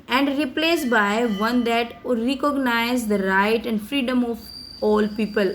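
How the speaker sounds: slow, careful read of a speech text; slow reading aloud. Acted. Teacher reading Mandela's speech to students, slow and careful. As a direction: read each English word slowly for the class.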